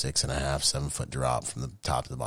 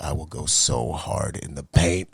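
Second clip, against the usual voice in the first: determined vow; 3 dB louder, slower than usual. Shown as a demonstration. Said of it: "I said it just like this".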